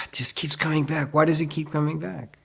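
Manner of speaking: sigh, then plead as a struggling seeker; mock exasperation. Teacher voicing a sincere seeker's struggle, mock exasperation.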